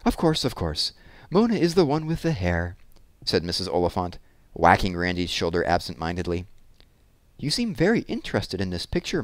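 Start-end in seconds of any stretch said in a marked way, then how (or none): 0.0-2.8 put-on higher-pitched old lady with a faint foreign accent; lightly voiced foreign old lady. A narrator's reading. Old lady recalls which sister is which, faint foreign accent. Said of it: "with its faint foreign accent". 7.4-9.2 lightly voiced old lady with a faint foreign accent; higher pitch, a hint of a foreign old lady. A narrator's reading. Old lady guesses the girl's name, faint foreign accent. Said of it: "with its faint foreign accent".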